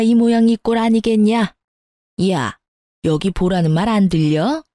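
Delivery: understated angry scolding, no real yelling; narrated mother-in-law's tirade, mildly acted; lightly voiced furious mother-in-law. A narrator's reading. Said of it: "열받은 시모가 고래고래 고함을 지르더군요".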